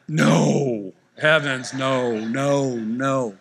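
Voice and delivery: loud, flustered no no no; embarrassed loud denial at the checkout. Retold or imitated. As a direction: brush it off in a hurry. Denying being a preacher.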